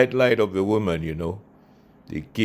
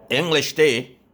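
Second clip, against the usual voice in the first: high, louder disbelieving echo; pitched-up mock outrage; incredulous; 9 semitones higher, 6 dB louder than usual. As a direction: scoff at the very idea. Incredulous echo of tea claim.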